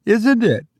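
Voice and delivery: high, tense woman's voice; anxious mother voice. Acted. Mother, fearful.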